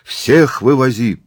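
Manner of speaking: high, loud demand; crowd shout. Acted. Tourist demands evacuation for all, shouting. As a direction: shout it out over the throng.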